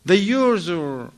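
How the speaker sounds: wife grilling husband about numbers in his pockets; interrogating. Retold or imitated. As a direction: grill him about the papers. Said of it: "She's checking him down".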